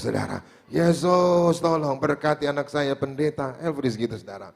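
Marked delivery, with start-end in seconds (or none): 0.7-3.9 retold loud prayer. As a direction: imitate father praying aloud, mildly raised. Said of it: "dia yang lagi doa kenceng-kenceng". (menirukan doa ayah yang agak keras)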